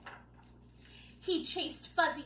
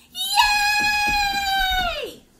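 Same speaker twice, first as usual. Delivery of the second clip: much higher, loud tiny-creature cheer; loudest cheer; 12 dB louder than usual. Acted. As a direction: squeal of the ducklings and unicorn. Baby animals cheer loudest.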